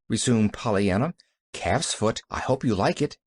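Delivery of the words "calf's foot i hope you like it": "I hope you like it" lifting at the end; rising inflection. A narrator's reading. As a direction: let "like it" rise hopefully. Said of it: "a rising inflection in her voice".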